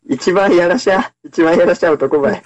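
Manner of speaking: Kumamoto dialect. Pretend. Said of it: "俺、熊本弁疎いからさ".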